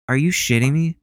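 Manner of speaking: real shock at the news; disbelief. Real, not acted. Shocked Ted Cruz on TikTok.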